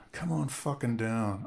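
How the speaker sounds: slow, darkening come-on; menacing invite. Pretend. Brandon turning the fake invite into a slow threat. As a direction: drag it out with a threat underneath. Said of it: "I'll say".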